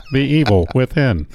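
flat computer-style robot voice. Pretend. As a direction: say it like a speaking computer. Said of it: "There's the computer voice".

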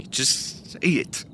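slow, breathy whisper; whispered plea. Acted. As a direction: beg softly, almost gone. Joe begs, fading.

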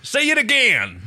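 high, slow, excited demand; eager urging. Acted. John wants Erin to repeat the word, excitedly. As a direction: urge her on, pitched right up.

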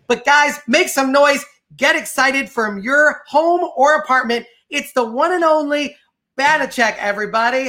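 hyped intro. Acted. Host introduces the magician to viewers, hyped announcer voice. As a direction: pump up the home audience like a ring announcer. Host hypes up guest's entrance.

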